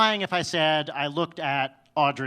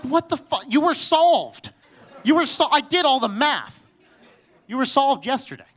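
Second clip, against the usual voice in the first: put-on exasperated yell at the baby; 10 semitones higher, 9 dB louder than usual. Dad yelling at his crying baby, exasperated and outraged. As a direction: shout it like your math just betrayed you. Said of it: "And you're like".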